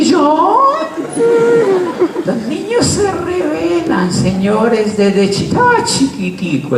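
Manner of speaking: very high, laughing; a high laugh while telling the audience; laughing exclamation. Real, not acted. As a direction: cry out through laughter. Laughing at the nephew's rebellion.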